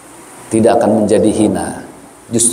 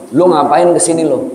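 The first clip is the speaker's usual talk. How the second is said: rude Betawi friend; 5 semitones higher than usual. Retold or imitated. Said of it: "dia bilang apa?".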